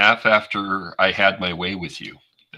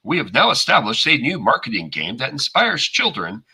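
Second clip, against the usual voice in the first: corporate ad voice; 4 semitones higher than usual. Acted. Corporate promo voice.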